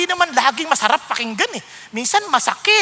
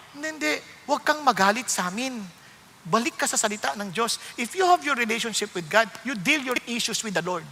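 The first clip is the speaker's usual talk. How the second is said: calm reassurance; 2 semitones lower, 7 dB quieter than usual. Retold or imitated. Calm reply to angry person.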